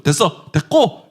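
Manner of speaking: loud, slow, cutting it short; curt shout. Retold or imitated. How the preacher would cut off the tempter, curt shout. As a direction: shut them down flat. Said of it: "소리 질러 끝냈을 거예요".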